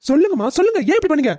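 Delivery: high-pitched, pressing demand for an answer; insistent demand. Acted. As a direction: press your mother hard for an explanation. Son confronts mother, demanding answers.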